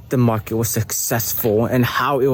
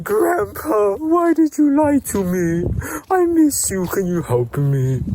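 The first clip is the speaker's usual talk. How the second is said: a child's mock sobbing plea, much higher; crying plea; 9 semitones higher than usual. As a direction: cry out to a missing grandpa. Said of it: "he starts to cry".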